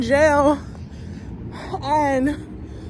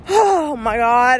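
slow, louder crying groan; real upset cry; 5 dB louder, slower than usual. Real, not acted. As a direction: drag it out through tears.

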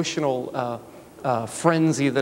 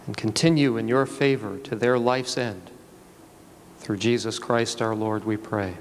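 prayer. Acted. Officiant prays over ring.

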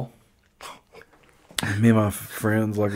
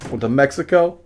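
louder proud show-off; bragging hick voice; 3 semitones higher, 4 dB louder than usual. Retold or imitated. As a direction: brag about the hat. Buyer bragging at home.

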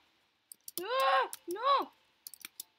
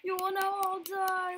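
mad scientist. Pretend. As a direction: declare doom like a cartoon villain. Villain threat in game.

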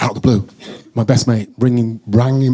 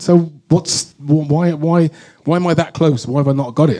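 retold puzzled questioning; 4 semitones higher than usual. Retold puzzled questioning of his manager.

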